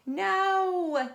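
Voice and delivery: high, loud, emphatic no; high shouted no; loud refusal. Acted. Stephanie refuses.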